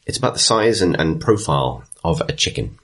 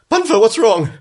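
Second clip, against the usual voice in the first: high, loud worried call; concerned town marshal; 5 dB louder than usual. Acted. Town marshal reaching the old man, high loud worried question. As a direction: push through and ask, urgently concerned. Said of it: "gets through it and says".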